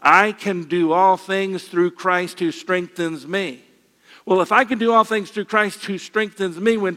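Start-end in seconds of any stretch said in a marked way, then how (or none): 0.0-3.6 slow, measured group recitation of the verse; recited together. Shown as a demonstration. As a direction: lead the congregation through the verse slowly, word by word. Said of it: "Let's say it together".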